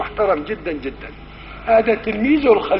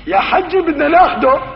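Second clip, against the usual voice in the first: put-on raised, pleading call to the old man; insistent demand; 8 semitones higher, 4 dB louder than usual. Angels pressing the old man, insistent raised voice.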